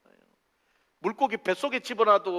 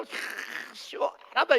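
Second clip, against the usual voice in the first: delighted relief; 9 semitones higher, much slower than usual. Acted. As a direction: act out overjoyed relief. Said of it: "막 좋아가지고 기뻐가지고".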